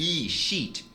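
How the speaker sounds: "shit" with an I sound like Portuguese "i"; long I sound. Shown as a demonstration. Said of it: "o som é do I do português". ("shit" com som de I)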